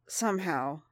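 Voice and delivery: forced out through clenched teeth; strained, teeth clenched tight; gritted teeth. Acted. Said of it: "through gritted teeth".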